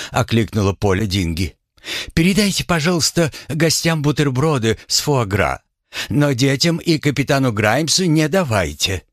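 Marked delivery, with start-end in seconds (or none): 2.1-9.0 high, prim lady giving orders; a stiff schoolmistress voice, pitched up. Acted. Dingy's voiced instructions.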